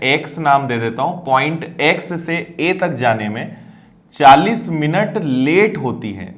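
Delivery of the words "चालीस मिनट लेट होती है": slow, with weight on लेट; stress on late. Shown as a demonstration. Teacher to students, stressing लेट, slowly. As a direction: lean on लेट so it is not heard as चालीस minute लगे. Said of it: "ये नहीं बोला है कि चालीस minute लगे".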